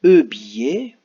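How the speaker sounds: loud questioning E billet; trying out an option. Shown as a demonstration. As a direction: call out E billet as a trial guess. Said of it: "est-ce qu'on va écrire".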